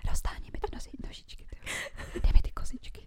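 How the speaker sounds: mock sexy whisper, unvoiced; imitated bedroom whisper; whispered dirty talk. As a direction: whisper it like an awkward lover. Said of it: "co ti jako třeba šeptal".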